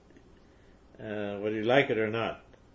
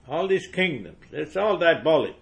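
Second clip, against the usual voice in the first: higher and louder, peaking on destroyed; fiery preaching; 4 semitones higher, 4 dB louder than usual. Acted. Preacher against rival churches, building fiery denunciation. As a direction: denounce them with rising fire.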